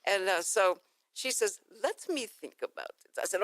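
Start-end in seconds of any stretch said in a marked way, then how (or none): 1.8-3.1 imitated Eastern European accent, higher start; doctor's foreign accent. Doctor considers coming on the show, in Dracula-like accent. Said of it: "I love your accent".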